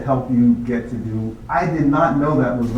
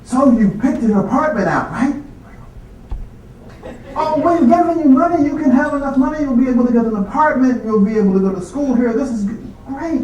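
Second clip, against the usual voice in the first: much higher, louder, eager dean voice; imitating the dean; 11 semitones higher, 3 dB louder than usual. Dean telling the student he gets the money, high and eager. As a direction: beam it out like a delighted dean. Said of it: "he says".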